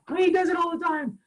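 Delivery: mock woman's voice in high falsetto; Shauna impression. Man mimicking his significant other complaining about him, high falsetto. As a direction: squeak it out way above your own voice. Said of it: "when I imitate Shauna, she sounds like this".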